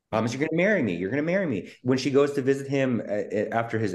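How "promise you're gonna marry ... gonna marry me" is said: imitating a needy movie heroine begging; swooping, hammed-up plea; mock pleading woman. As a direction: plead it in rising and falling swoops. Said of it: "she's just like".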